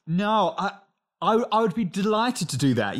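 lightly acted polite keenness; job interview voice. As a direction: put on mild interview eagerness. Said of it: "You speak in all these ways that you don't".

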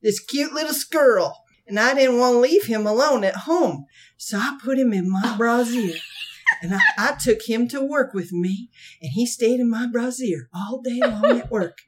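a touch of her sweet storytelling; imitating the lonely woman. Lonely woman telling about her squirrel, lightly imitated. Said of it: "This is how she said it".

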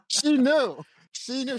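giggling as he repeats it; amused host laughing about his wife. Real, not acted. Laughing at wife's reaction.

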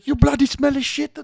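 very high, loud caricature yell; very high loud mock accent; mock Indian accent. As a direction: shriek the insult in a caricature. Repeat caricature, higher.

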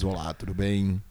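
sussurrada e grave, sedutora; voz aveludada. Shown as a demonstration. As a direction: fale baixo como locutor sensual. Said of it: "Com a voz aveludada". (locutor de voz aveludada)

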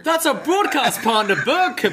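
squeaky goofy commentator impression; mock Gacy.

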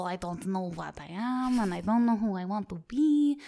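mock Russian-style accent, swooping up at the end; Gru. Guest demonstrating their muddled accent, mock Russian cartoon villain. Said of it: "that was just Gru".

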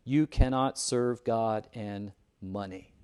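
slow, weighty "You cannot serve God and money"; emphatic. Retold or imitated. Preacher quoting Jesus' last sentence, "You cannot serve God and money" slow and emphatic. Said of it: "Very emphatic".

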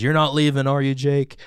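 slow, measured villain monologue; a hint of a gloating villain; slow theatrical villain menace. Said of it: "his little villain monologue".

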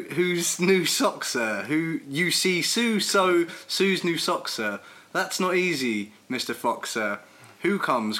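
careful, deliberate Dr Seuss read-aloud; sing-song children's book read; picking through tongue twisters. Acted. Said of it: "Switch reader".

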